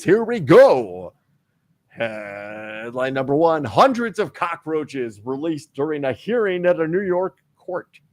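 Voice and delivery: booming official announcer read; big official booming voice. Acted. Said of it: "Big official booming voice".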